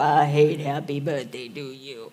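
a hint of the sulky toddler; lightly voiced toddler. Family joke, a light toddler mumble. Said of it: "I probably will say it".

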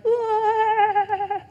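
high startled whoa; delayed shock. Retold or imitated. Driver alone in the car, startled whoa. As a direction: let the shock finally land.

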